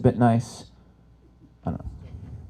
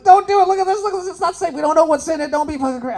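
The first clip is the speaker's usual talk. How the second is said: much higher, pleading retold warning; urgent warning; 4 dB louder than usual. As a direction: beg him not to do it, pitched way up. Urging a friend not to.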